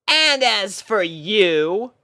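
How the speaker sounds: a pony captain lining up her troops; Rainbow Dash voice, bossy and bright. A narrator's reading. Rainbow naming puppy.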